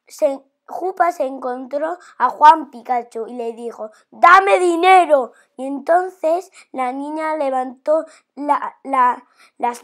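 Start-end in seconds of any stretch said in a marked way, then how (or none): 4.1-5.3 loud, slow robber's demand; slow, forceful mugger's order; demanding shout. Acted. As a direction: bark out the demand for money. Robber demands money from girl.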